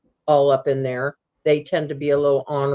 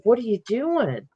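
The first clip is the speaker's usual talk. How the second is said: higher, gentle sing-song question; retold soothing question, as to an animal; calm coaxing; 5 semitones higher than usual. Camper asking the creature what it's up to, calmly. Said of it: "I just said real calmly".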